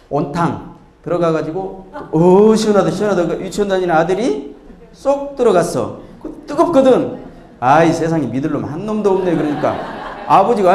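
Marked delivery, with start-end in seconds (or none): 2.1-3.3 contented bather. Acted. Father sighing in the hot bath. 7.6-9.3 grumbling little son. Acted. Kindergarten son grumbling in hot bath.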